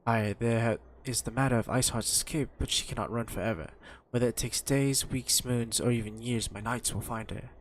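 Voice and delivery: lightly acted, formal character read; measured old-fashioned dialogue reading, understated; voiced game dialogue.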